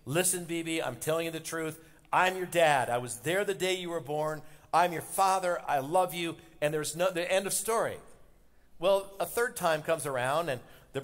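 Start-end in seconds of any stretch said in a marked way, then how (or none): 0.0-8.0 put-on steady the boy like his dad would; reassuring father. Dad comforting crying son again.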